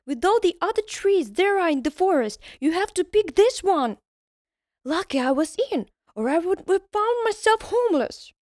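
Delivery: high, loud scolding elf; tiny elf telling him off; indignant elf. Acted.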